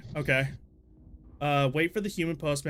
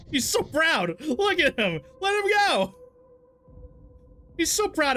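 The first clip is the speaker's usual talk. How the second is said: giggling; 12 semitones higher, 4 dB louder than usual. Real, not acted. Giggling at proud postman.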